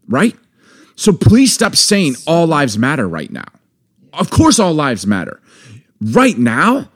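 real exasperation building into a rant; getting angry. Real, not acted. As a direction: let the frustration climb as you push the point. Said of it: "'Cause I'm getting angry".

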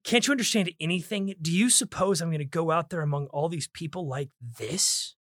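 exasperated question landing on "this"; stress on THIS. Shown as a demonstration. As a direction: build up to a stressed final "this". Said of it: "Emphasis on this".

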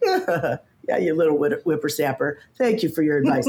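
retold condescending brush-off; mock dismissive. Speaker waving away younger adviser's tips, dismissive. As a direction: brush off a youngster, lightly hammed-up. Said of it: "like, dismissive".

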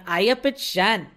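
a light attempt at a Yorkshire accent; lightly put-on Yorkshire accent, barely shifted. Shown as a demonstration. Podcast host tries her guest's Yorkshire accent. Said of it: "I hope I'm doing a good Yorkshire accent there".

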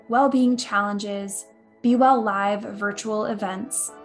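upbeat announcer read over music; podcast outro read. Acted. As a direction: sign off like a radio host.

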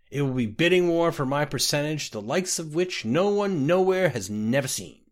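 tipsy boastful rambling; a drunk man bragging over his mug; slurry, pleased-with-himself drunk; drunk Scotty. Acted.

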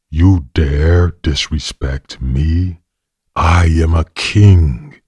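a king drawing himself up in offense; angry. Acted. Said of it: "his show of anger".

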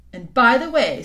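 lightly voiced queen, coaxing and sweet; a hint of a sly, honeyed queen; queen coaxing the boy gently. A narrator's reading. Queen speaks.

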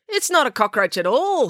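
put-on a boy's startled discovery; crying out. A narrator's reading. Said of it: "he cried".

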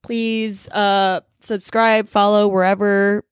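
talking while sick, a bit stuffy. Real, not acted. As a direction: speak with a head cold. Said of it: "I'm sick".

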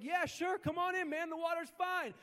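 casual buddy Jesus. Retold or imitated. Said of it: "And Jesus is like".

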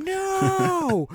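put-on very high, loud toddler wail of no; toddler's angry no. Imitating a toddler protesting her sister's roll, high shriek. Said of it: "She literally started going".

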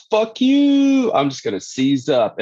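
high squeaky voice for a cranky nerve; angry nerve. Pretend. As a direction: give the nerve a petty, shrill little voice. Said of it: "and your nerve goes".

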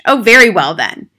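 loud, irritable giving-in; snapped. A narrator's reading. Father grudgingly letting the teacher in, snapping. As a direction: give in with an irritated snap. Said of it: "he snapped".

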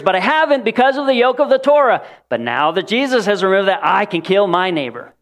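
hammed-up delight at a terrible idea; mocking absurd glee. Absurd mock speaker.

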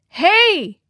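high, loud alarmed yell; boy shouting to friends as the raft breaks; shout over waves. A narrator's reading. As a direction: yell over the roar of the surf. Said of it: "shouted Harold above the roar".

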